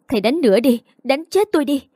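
a touch of wounded defiance; defiant challenge. Acted. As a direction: pitch climbing in defiance. Student dares teacher after slap.

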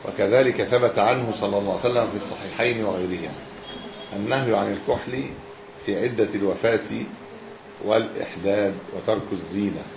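measured classical Arabic reading; formal text reading. Acted. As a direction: read the text out evenly, with pauses between phrases. Reads the book aloud.

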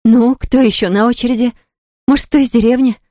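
bitter laughter breaking through the questions; almost laughing. A narrator's reading. Isabella realizes everyone wants her house, half-laughing bitterly. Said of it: "Теперь она почти смеялась".

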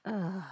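soft imitated sigh of exasperation; exasperated groan. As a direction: groan softly, fed up with the game. Magnum's acted exasperated reaction.

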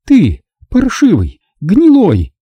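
high, slow, spat-out insults; spitting words in rage. A narrator's reading. Nina slaps Rick, spitting furious insults. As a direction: spit each word out, choking with spite. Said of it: "Задыхаясь от злобы, выплёвывала она слова".

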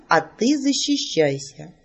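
slow, teasing challenge with a rise on ты; mage's challenge. Acted. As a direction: dare her, stretching each word. Mage proposes a duel. (маг медленно и с вызовом предлагает защищаться)

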